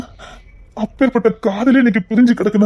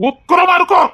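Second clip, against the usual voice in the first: raised warning; 4 semitones higher than usual. Acted. Warning of her vengeful rage.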